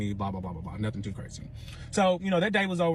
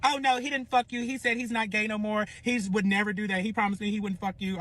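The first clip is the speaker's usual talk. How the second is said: insistent denial; 5 semitones higher than usual. Retold or imitated. Rival's acted denial in a quarrel.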